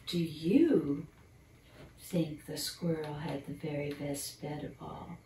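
put-on gentle storybook narration for children; bedtime story reading. Reading a squirrel bedtime story to young listeners, storyteller voice. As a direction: read it like a picture book at bedtime.

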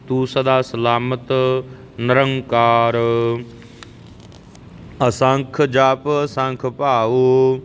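slow, measured Gurbani recitation; scripture recitation. Shown as a demonstration. Teacher models Japji verses for learners, measured recitation. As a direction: recite line by line, drawing out the endings.

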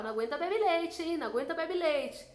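lightly voiced party taunt; mocking taunt. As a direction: tease a friend who can't hold her drink. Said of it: "e eu falava".

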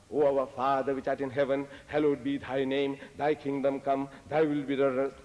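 level, intoned prayer; solemn rote recital on one note; prayer recitation. Retold or imitated. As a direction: recite it in an even, continuous chant.

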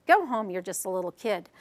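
low judge voice. Shown as a demonstration. Judge dismisses Samuel, lightly voiced low and stern. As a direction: drop the pitch for the judge. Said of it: "We did the high-low".

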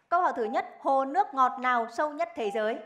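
crisp quiz host read; game show host. Acted. Rapid-fire quiz round.

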